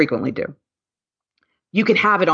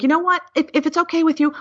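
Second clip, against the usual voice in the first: raised, gentle stranger's voice; kind stranger offering; 12 semitones higher, faster than usual. Retold or imitated. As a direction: voice him kindly and hesitantly, clearly higher. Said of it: "And he's like".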